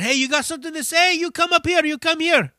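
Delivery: high, fast mock challenge from the stage; imitating the singer. Singer daring the heckler to come up, high mock challenge. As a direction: goad a heckler, hammed up. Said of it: "he said".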